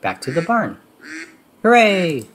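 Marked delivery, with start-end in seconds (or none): 1.6-2.3 high, loud cheer; a big happy whoop; shouts. A narrator's reading. Minnie cheering the animals home, loud and high. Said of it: "shouts Minnie".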